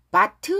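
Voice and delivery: "but" with an added "teu" at the end; over-released final T. Shown as a demonstration. Teacher showing what to avoid, heavy t in "but". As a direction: sound the t of but as a syllable. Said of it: "하지 말고 T 끝난 단어 약하게".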